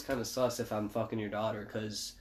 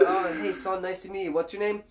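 high, overly sweet dad greeting; sugar-coat it before the threat; fake-friendly dad; 6 semitones higher than usual. Dad greeting daughter's boyfriend.

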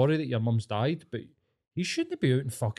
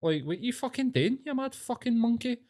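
higher-pitched, half-acted indignant rant; mock outraged rant; 4 semitones higher than usual. Bystander scolding the men who pushed the heckler, mock outrage. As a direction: play the outraged bystander, hammed-up. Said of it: "you're like".

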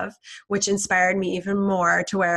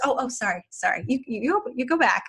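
polite inner voice; 4 semitones higher, faster than usual. Retold or imitated. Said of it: "is so polite".

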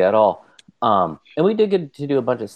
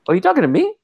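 incredulous retort; 5 semitones higher, faster than usual. Retold or imitated. Retelling annoyed reaction to stranger.

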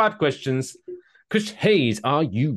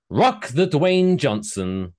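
announcer voice; slower than usual. Acted. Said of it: "That was very good".

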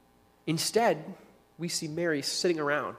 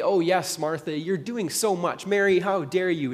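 mock praise; 3 semitones higher, 6 dB louder than usual. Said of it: "She wanted Jesus to say".

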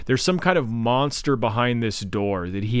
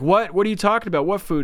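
baffled retort; 8 semitones higher, faster than usual. Retold or imitated. Acting out the others' baffled reply.

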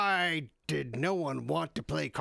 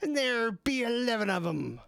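pirate voice; 6 semitones higher than usual. Acted. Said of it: "The pirate says".

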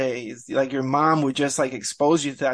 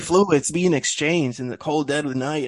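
dramatized. Pretend. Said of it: "I was trying to dramatize it".

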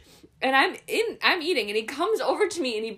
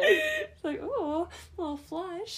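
laughing; 8 semitones higher, 4 dB quieter, slower than usual. Real, not acted. Teasing friend about blushing.

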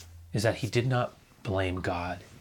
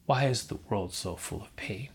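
whispered; 3 dB quieter than usual. Acted. Voicing a listener's anguished questions.

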